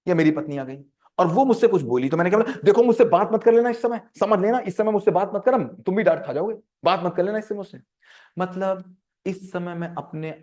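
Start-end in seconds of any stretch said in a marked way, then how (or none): 2.6-5.5 loud, raised warning to back off; acted angry outburst at spouse; angry snapping. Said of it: "बहुत मैं गुस्सा आ रहा हूँ". 5.5-7.8 mildly heated threat to spouse; acted irritation, a touch restrained; angry warning. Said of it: "बहुत मैं गुस्सा आ रहा हूँ".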